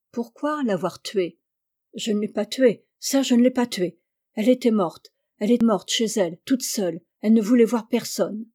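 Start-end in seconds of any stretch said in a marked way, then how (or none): 1.9-8.4 hurried, rasping protest; a mild hint of a frightened rush; rushed, hoarse denial. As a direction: blurt it out in a panic. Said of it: "une réponse précipitée, rauque, presque inaudible".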